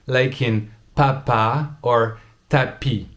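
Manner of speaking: papa, tapis, bal, abbaye, maman, pomme said slowly and precisely; slow textbook pronunciation. Shown as a demonstration. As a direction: spell out each example word slowly. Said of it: "we have the P".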